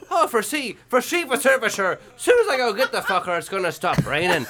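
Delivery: high, lively caricature of a dad; Bill. Acted. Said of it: "And Bill was like".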